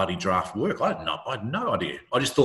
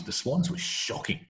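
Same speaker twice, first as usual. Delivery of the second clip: whispered aside; 7 semitones higher, 6 dB quieter than usual. Real, not acted. Confiding aside about the club.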